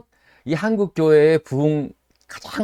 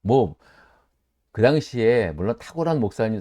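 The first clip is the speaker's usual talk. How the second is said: ordinary talk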